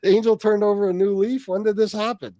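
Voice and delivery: exaggerated "can it be true" reaction; mock amazement. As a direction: act out stunned disbelief at big news. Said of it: "I'm like".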